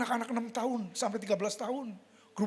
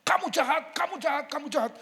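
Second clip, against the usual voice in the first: raised, higher mock scolding; angry father; 6 semitones higher than usual. A hint of father raging at his children, higher mock anger. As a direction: lightly replay a father's rage. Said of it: "papa saya ngamuk sama kita".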